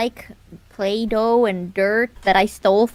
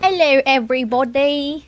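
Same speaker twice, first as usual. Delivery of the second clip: hammed-up British greeting; British accent. Greeting the stream, mock British accent. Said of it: "he's British".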